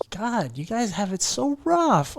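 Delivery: whispered sarcasm with a slow drag on rough; whispered sarcastic mock sympathy. Real, not acted. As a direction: hush it out like a sarcastic aside. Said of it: "that's why I'm so sarcastic".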